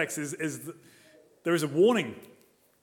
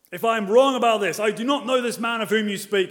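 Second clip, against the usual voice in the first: loud, higher oath in the name of God; strongest oath; 5 semitones higher, 5 dB louder than usual. Retold or imitated. Peter swears before bystanders, loud emphatic oath. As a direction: call on God with full force. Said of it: "in the strongest possible way".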